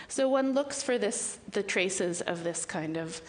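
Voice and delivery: slow and short of breath; pausing, struggling for air. Real, not acted. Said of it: "catching my breath a little bit".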